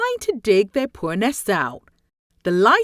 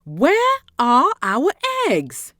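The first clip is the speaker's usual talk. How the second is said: worried magpie; slower than usual. Acted. Magpies find the ruined nest.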